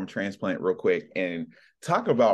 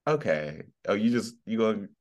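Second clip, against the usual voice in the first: put-on older Black woman; faster than usual. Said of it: "those older Black women that are just like".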